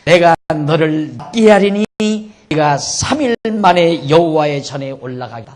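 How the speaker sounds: loud, emphatic divine promise; 하나님의 선언. Acted. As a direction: proclaim it firmly as God answering a prayer. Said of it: "그러니까 하나님께서". (하나님이 응답하시듯 힘주어 선포)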